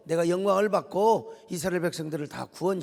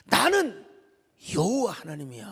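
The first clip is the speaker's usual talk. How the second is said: unhurried and assured. Acted. God calmly revealing the name to Moses, assured. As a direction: state the name calmly, with space. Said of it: "여유 있고 너끈한 대답".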